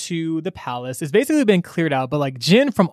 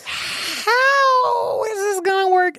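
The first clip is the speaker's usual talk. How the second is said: high, slow panicked wail; panicked cry; much slower than usual. Retold or imitated. Overwhelmed heroes facing army.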